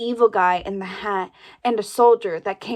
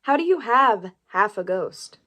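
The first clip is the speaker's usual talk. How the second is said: whispered question. Acted. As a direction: lean in and whisper it. Joking aside among sisters.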